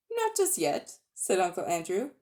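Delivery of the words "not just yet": mock sly refusal. Uncle Andrew refuses to release.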